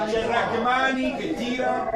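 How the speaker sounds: excited commentary. Real, not acted. Live shot described excitedly.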